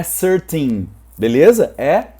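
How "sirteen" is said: thirteen begun with S, as sirteen; wrong S sound. Shown as a demonstration. Teacher warning learners off thirteen said with an S. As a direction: swap the TH of thirteen for S. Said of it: "não é thirteen".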